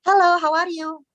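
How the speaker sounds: imitated greeting. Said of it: "it's feminine".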